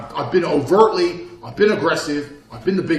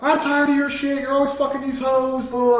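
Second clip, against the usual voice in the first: mock nagging girlfriend; 9 semitones higher, 4 dB louder than usual. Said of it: "arguing with your girl".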